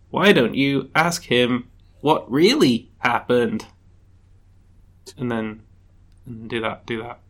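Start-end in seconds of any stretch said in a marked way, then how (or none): 0.1-3.7 slow, measured robot voice. Acted. Robot prompts player to question the judge, robot voice. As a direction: space it out slowly like a robot. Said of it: "the robot's like".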